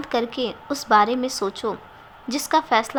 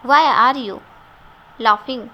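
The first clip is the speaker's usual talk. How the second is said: sharp, louder angry question; 5 dB louder than usual. Acted. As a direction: snap at her for laughing. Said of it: "करण ने गुस्से में कहा". (गुस्से में पूछा गया सवाल)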